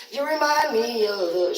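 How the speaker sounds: imitated upset housemate. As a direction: stretch it out in a mock wail. Starts mimicking the sad housemate.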